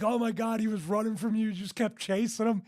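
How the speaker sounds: retold disbelief. Acting out friend's amused disbelief.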